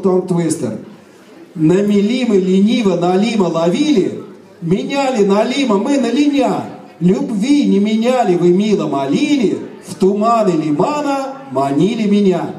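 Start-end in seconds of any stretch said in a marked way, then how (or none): 1.5-12.5 slow, careful recitation; very slowly. Shown as a demonstration. Teacher reciting slowly to the audience. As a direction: spell it out slowly so they can follow. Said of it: "I am going to say this tongue twister very slowly first".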